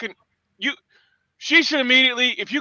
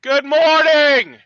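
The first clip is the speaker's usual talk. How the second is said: sarcastic greeting; 5 semitones higher, 3 dB louder, much slower than usual. Real, not acted.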